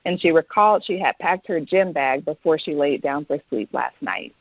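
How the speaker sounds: calm, even reading of her own novel; story reading. Acted. Author reading her book excerpt to the host, calm and even. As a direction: read the passage like an audiobook.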